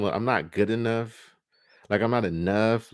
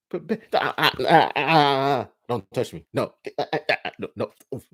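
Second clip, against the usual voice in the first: mock moaning; 4 semitones higher, 3 dB louder than usual. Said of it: "I heard how you scream with him".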